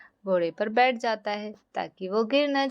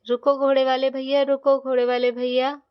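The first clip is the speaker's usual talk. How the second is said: louder call to someone walking away; 2 semitones higher, 5 dB louder than usual. Acted. Father calling after the horse man to wait, louder call.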